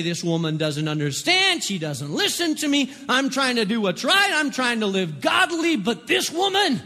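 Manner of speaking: mildly acted angry husband, frustration rising; mad venting. Husband complains to himself about his wife, mad venting. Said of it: "every time you're mad or angry".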